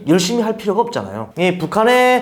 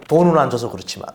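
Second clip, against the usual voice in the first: real laughing. Real, not acted. Defector admitting the easy job pays nothing, laughing. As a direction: toss off the catch, then laugh. Wry punchline about unpaid work.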